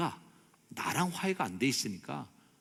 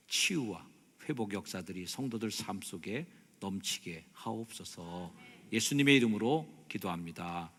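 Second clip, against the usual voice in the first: hushed, measured prayer with pauses; closing prayer; 3 semitones lower than usual. Real, not acted. Pastor thanking Jesus on the congregation's behalf, subdued earnest prayer. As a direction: pray earnestly, phrase by phrase.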